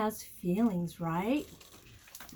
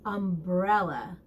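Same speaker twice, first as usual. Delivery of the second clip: slow vocab word; 5 semitones lower than usual. Shown as a demonstration. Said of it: "How about umbrella".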